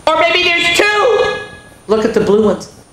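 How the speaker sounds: eyes wide at the blue ones; scared boy. Acted. Frightened boy in story.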